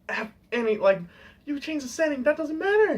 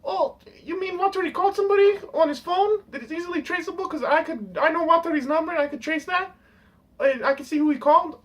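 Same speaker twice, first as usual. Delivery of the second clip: mock big dummy; 5 semitones higher than usual. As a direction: play him as a clueless whiner. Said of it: "a big dummy".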